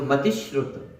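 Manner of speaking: slow "मति श्रुत" with weight on "ति" before "श्रु"; stress before the conjunct. Shown as a demonstration. Teacher demonstrating stressed recitation of "मति श्रुत". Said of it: "ऐसा बल दे करके उसको पढ़ा जाता है".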